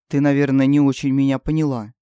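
low, firm, emphatic; with pressure. Acted. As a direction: lean on every word. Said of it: "с нажимом начал Юст".

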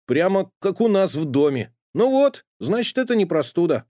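put-on high, loud boyish question; high puzzled boy voice; curious boy Uncle Fyodor. A narrator's reading. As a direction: ask puzzled like a small boy. Boy concludes relieved.

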